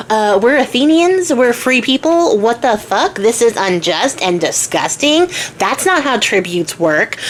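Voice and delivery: slow, emphatic mild outrage; acted incredulous indignation; indignant protest. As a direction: spell out the injustice, drawing words out. Theseus outraged at the tribute.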